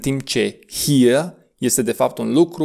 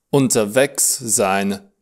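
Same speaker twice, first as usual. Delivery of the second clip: Unterwegs sein, slowed so each syllable is clear; slow teaching model; 3 semitones lower, slower than usual. Shown as a demonstration. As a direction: spell out unterwegs sein for the learner. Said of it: "A fi la drum".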